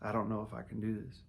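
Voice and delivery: soft, choked-up repeat of doubt; softly pleading through tears; tearful. Retold or imitated. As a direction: say it quietly, near tears. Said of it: "I'm in actual tears".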